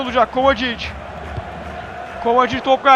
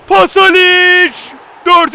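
screaming football commentator; 3 semitones higher, 5 dB louder, much slower than usual. Real, not acted. Penalty kick taken.

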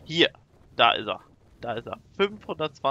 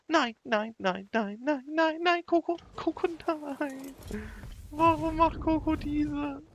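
high, frantic repeated cries stretching into a wail; panicked wailing; 4 dB louder, slower than usual. Real, not acted. Player begs the pet Coco to stop, panicked wailing. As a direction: wail in despair, pitch climbing high.

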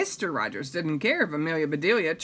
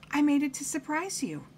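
high, soft-edged cheerful maid voice; pleased, high-pitched little announcement; happy; 9 semitones higher, 3 dB quieter than usual. A narrator's reading. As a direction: offer it happily in a high voice. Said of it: "said Amelia Bedelia happily".

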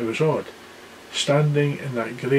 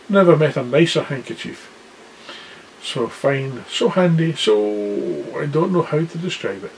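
giant's voice; 3 semitones higher than usual. Acted. Giant praises handkerchief.

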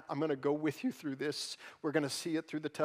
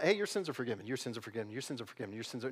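casual mock blessing; 4 semitones lower, 4 dB quieter, much faster than usual. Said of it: "I can walk around".

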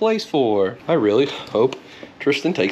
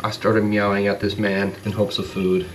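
lower, lightly voiced cat thoughts; voicing the cat; 5 semitones lower than usual. Man voicing what the bathed cat thinks, a lightly lower voice. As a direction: mumble the cat's inner worries, low. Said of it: "He's like".

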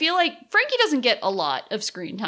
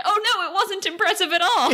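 dismissive aside; 11 semitones higher than usual. Retold or imitated. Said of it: "lampshaded by".

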